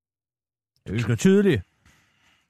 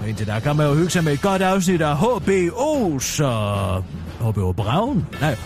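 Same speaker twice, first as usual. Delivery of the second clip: news read. Acted. Reads a radio newscast.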